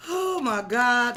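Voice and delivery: surprised. Real, not acted. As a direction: gasp it out amazed. Reacts to the cards.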